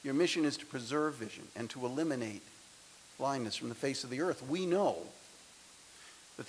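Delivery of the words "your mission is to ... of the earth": softer, faster, matter-of-fact; quiet restatement. Real, not acted. Speaker to graduates, restating the mission softly and quickly. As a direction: drop the pomp and just say it plainly and quickly.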